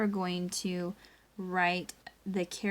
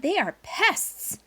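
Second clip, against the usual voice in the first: dad's stern voice; 9 semitones higher, 5 dB louder, slower than usual. Acted. Dad character voiced in story.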